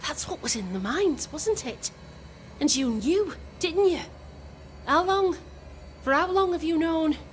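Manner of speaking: rising from pressing to shouting; accusatory. Acted. Wife confronts him, escalating.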